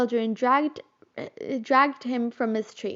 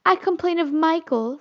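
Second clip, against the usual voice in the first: instant complaint; 6 semitones higher than usual. A narrator's reading. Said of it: "said Curly instantly".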